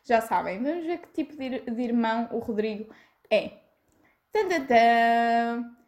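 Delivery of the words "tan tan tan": slow, spaced-out fanfare; mock drumroll. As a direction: build suspense like a drumroll. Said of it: "drumroll before quiz". (rufar de tambores lento)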